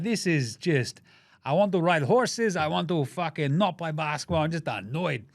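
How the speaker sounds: mock Serbian accent. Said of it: "his accent changed about five times".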